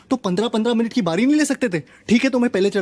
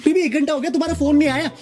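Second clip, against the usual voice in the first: a hint of needy girlfriend, higher voice; complaining girlfriend; 4 semitones higher than usual. Girlfriend chiding him for not calling, mock complaint. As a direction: lightly imitate a girlfriend, pitched higher.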